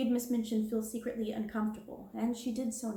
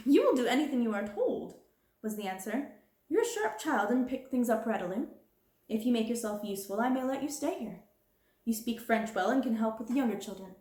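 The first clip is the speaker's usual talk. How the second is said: louder, brisk and cold; curt headmistress; 2 semitones higher, 3 dB louder than usual. Acted. Curt orders. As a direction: headmistress dictating the girl's duties, curt. Headmistress sets Sarah's duties.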